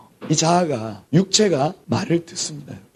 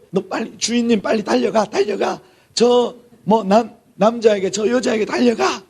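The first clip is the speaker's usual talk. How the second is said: urgent goading; 5 semitones higher than usual. Acted. Acting out self urged toward sin.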